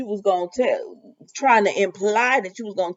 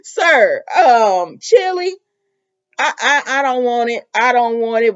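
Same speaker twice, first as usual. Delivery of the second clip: mock protest; 3 semitones higher, 5 dB louder than usual. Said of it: "I said".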